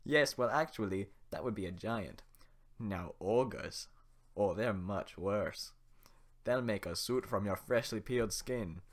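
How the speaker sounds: loud, gleeful ogre relishing the gore; Shrek voice. Acted. Shrek scares the villagers with gory details, in a loud ogre voice. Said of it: "nail the Shrek voice at first".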